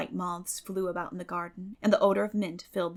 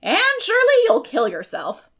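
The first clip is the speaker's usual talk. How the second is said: much higher, loud horrified gasp of a name; horrified cry; 10 semitones higher, 12 dB louder than usual. A narrator's reading. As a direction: shriek in holy horror. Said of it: "lifted her hands in holy horror".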